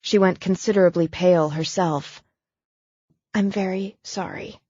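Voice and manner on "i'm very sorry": quiet apology. Acted. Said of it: "she repeated".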